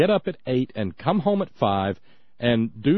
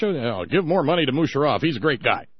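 John Bolton impression. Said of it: "was it maybe John Bolton".

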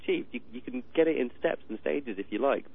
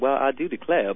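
put-on Southern accent; 3 semitones higher, 5 dB louder than usual. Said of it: "You do that very, very well".

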